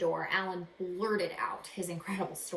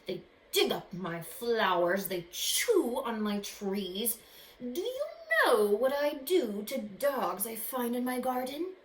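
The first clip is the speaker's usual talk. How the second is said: slow menacing magician voice, building louder; menacing growl; 3 semitones higher, 5 dB louder, slower than usual. Acted. Magician threatening the boy about dogs, slow growl. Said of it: "a voice that was more like a growl".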